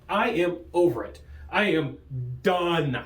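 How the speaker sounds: mock weary, totally over it; fed up. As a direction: drag it out like someone completely done. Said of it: "trying to make that sound that people have when they're over it".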